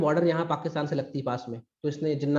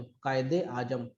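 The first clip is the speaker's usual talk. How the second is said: कायदे आजम stretched slowly, softer and trailing down; drawn-out repeat; 3 semitones lower, 5 dB quieter, much slower than usual. Shown as a demonstration. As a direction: say कायदे आजम at half speed, quietly. Title repeated slowly for the pun.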